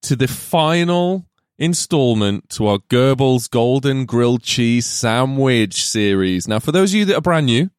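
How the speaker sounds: grand host welcome; slow showman announcement; podcast host intro. Acted.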